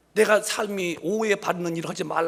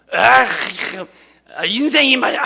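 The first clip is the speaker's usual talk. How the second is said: loud, higher grumble about life; grumpy complaint; 4 semitones higher, 9 dB louder, much slower than usual. Retold or imitated. Pastor mimics a sour grumbler to the congregation, loud grumble. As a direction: sigh out a grumpy gripe. Grumbling man quoted in sermon.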